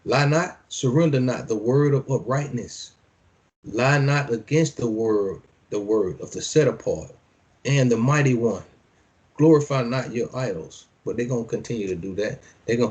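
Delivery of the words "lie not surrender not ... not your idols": measured preacher's reading; scripture reading. Acted. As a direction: declaim each line like a decree. Reads scripture aloud.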